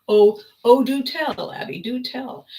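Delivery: 1 tag only; eager do tell. Retold or imitated. Roger eagerly asks for story.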